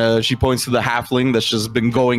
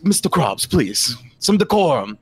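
raised pitch, measured reproof; reproving half-elf leader; 4 semitones higher than usual. Acted. Half-elf asking goblin for decorum, reproving. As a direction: call him to order.

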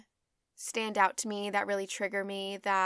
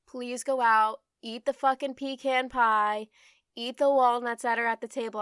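louder, pushing them to go eat; emphatic urging; 2 semitones higher, 7 dB louder than usual. Real, not acted. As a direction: cheer them on, loud and sure. Urging viewers to eat freely.

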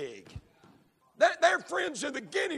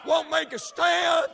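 preaching litany; 3 semitones higher than usual. Real, not acted. Preacher condemns preachers who won't preach against sin, full force. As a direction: hammer each won't like a drumbeat.

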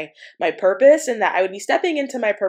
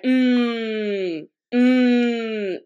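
humming demo; 2 semitones higher than usual. Shown as a demonstration. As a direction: hum as if finding the pitch. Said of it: "it was like humming".

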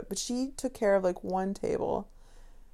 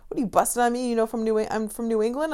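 higher, lightly put-on Boston voice; mock Boston accent; 4 semitones higher, 5 dB louder, faster than usual. Customer challenging the bartender's speech, in a mock Boston accent. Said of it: "Guy's from Boston".

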